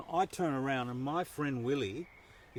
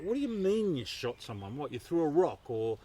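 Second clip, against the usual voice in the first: higher, pressing imitation of a shocked dad; incredulous father; 3 semitones higher, 5 dB louder than usual. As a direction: demand an explanation in mock disbelief. Father demands explanation, retold.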